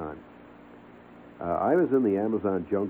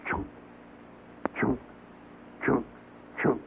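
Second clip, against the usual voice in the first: chopping noise; 3 semitones higher, 9 dB quieter than usual. Retold or imitated. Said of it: "and it goes".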